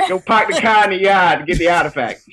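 put-on Boston accent. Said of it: "I can't do a Boston accent".

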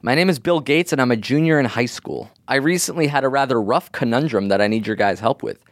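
lightly voiced young landscaper. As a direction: read it as a teen landscaper. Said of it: "doing a voice of somebody you assume is a landscaper".

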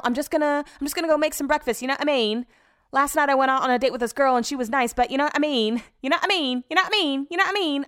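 high-pitched, hammed-up English accent; bad English accent. Podcaster mimicking English people's verbal tic, exaggerated English accent. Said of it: "I do the worst English accent".

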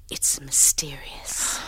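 slow, low, mysterious whisper. Acted. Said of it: "It's not spooky".

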